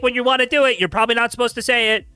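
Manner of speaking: sarcastically explaining the obvious; sarcastic disbelief. Real, not acted. Incredulous sarcastic lecturing.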